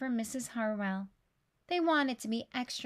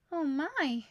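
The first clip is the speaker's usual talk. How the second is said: mild surprise; 3 semitones higher than usual. Acted. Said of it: "she said".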